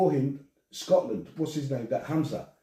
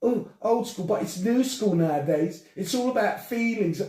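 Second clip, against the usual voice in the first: mocking whiny voice; 5 semitones higher than usual. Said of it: "I could just fucking hear them".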